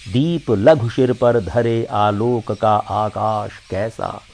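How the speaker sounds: measured Hindi verse recital, lines set apart by pauses; poem recitation. Acted. Recites Mahadevi Verma's poem.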